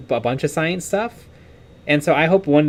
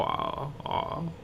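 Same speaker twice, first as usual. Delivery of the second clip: much lower, quieter try at a deep British man; attempted deep British voice; 14 dB quieter than usual. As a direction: strain to push the voice down deep. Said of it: "Do the voice".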